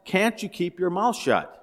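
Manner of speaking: exasperated husband's mock growl; mock growl through clenched teeth. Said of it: "The man growls at his wife".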